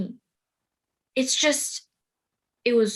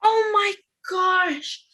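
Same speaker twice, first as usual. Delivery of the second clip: surprised; 6 semitones higher, much slower than usual. Acted. Realizing the prophecy.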